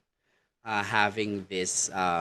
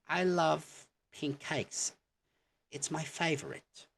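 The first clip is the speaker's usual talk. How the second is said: British accent; 8 semitones higher than usual. Shown as a demonstration. Teacher showing the British way to say favorite. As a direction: say it the British way, lifting the pitch. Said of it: "in a sentence".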